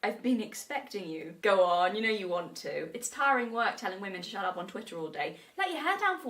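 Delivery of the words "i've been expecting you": a hint of a suave villain; Bond villain line. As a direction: tease the villain line quietly. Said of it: "Hit us with the".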